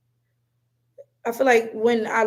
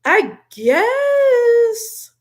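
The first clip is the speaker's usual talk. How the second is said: doubtful concession; 12 semitones higher, 6 dB louder than usual. Real, not acted. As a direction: GUESS drawn out high and loud. Sceptical reply, then repeated plainly.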